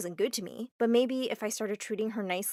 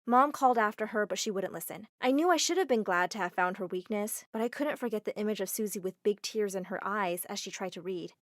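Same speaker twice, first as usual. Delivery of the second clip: ordinary delivery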